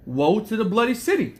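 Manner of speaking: scripture reading. Acted. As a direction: proclaim the verse, drawing it out. Reads Nahum aloud, proclaiming.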